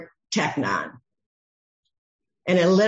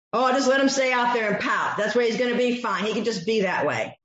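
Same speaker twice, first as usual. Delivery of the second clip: quick, breezy dismissive voice; fast offhand shrug of a father; mock careless father; 3 semitones higher, faster than usual. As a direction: toss it off like a careless dad.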